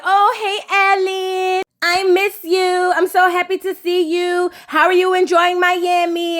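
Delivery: a hint of a lovestruck sweetheart; mock gushing girl. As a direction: gush over him like a smitten girl. Mocking Flo's gushing greeting.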